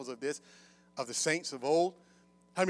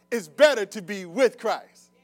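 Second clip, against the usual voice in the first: louder call-out to draw a response; firm preaching prompt; 4 semitones higher, 11 dB louder, slower than usual. Real, not acted. Preacher trying one side of the congregation, firmly. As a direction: put it firmly to that side of the room.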